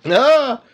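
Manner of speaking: loud, high "ah!"; short, high, loud exclamation; exclaimed "ah". Real, not acted. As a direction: burst out with a sudden high "ah!". Playful reaction to co-host's joke.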